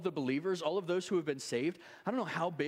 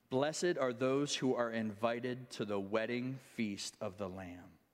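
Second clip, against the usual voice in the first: scripture reading. Acted. Preacher reads Revelation to the congregation, solemn reading. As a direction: read the passage with reverent weight.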